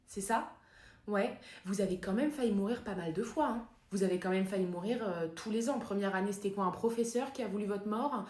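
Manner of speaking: soft-spoken, probing therapist; lightly voiced therapist, softly picking through a case; psychotherapist. Therapist to patient Harry Potter, soft consultation voice.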